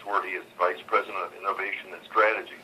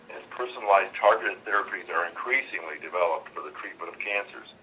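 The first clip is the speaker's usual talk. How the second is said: on speakerphone. Real, not acted. Earnings conference call over phone.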